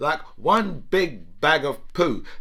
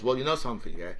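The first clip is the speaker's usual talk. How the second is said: lightly voiced Putin, lower and matter-of-fact; a hint of a self-assured strongman; imitating Putin; 3 semitones lower than usual. Comic voicing Putin justifying his war, lower. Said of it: "now we've got Putin saying to us".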